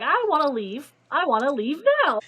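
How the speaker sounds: hammed-up insistence, swooping up in pitch; mock demanding. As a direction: imitate someone insisting on going. Retold demand to leave, acted out.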